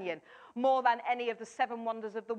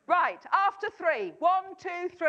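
rallying count; 5 semitones higher, slower than usual. Real, not acted. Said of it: "let's say it in a big voice".

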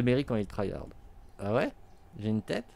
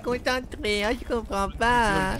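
high, slow mocking whine; mock a crying sore loser; whiny crybaby voice; 11 semitones higher, 4 dB louder, much slower than usual. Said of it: "il va venir pleurer après en disant".

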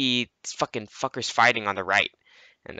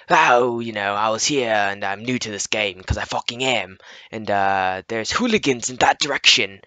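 affected, campy role-play voice; medieval LARP voice; 4 dB louder than usual. Retold or imitated. New player warns others about hooligans, campy LARP voice. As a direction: put on a campy medieval newcomer. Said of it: "larping voice".

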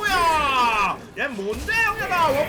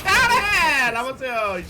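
ordinary delivery

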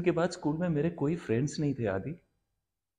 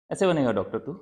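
firm, raised-voice reproach; stern scolding; 6 dB louder, faster than usual. Acted. Parent scolding Adi over becoming a doctor, stern. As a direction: scold with a falling, heavy tone.

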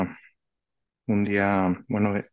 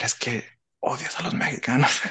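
higher-pitched mock accusation; reproche imitado; 3 semitones higher than usual. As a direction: playfully voice the imagined critics. (reproche fingido en tono de broma)

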